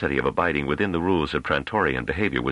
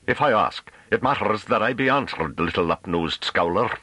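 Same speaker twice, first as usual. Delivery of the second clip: higher voice, slowing on the insult; domineering rustic farmer; 6 semitones higher than usual. A narrator's reading. Farmer demanding an answer from the scholar, domineering. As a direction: insist in broad country dialect.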